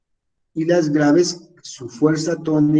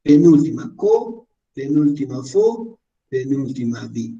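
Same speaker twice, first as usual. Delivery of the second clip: name "penúltima", then give the stressed syllable "co", "fo", "di" by itself; teacher isolating each stressed syllable: "co", "fo", "di"; syllable stress demo; 3 semitones lower than usual. Shown as a demonstration. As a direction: pick out "co" and "fo" on a raised pitch after each "penúltima". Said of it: "Fuerza de voz o entonación".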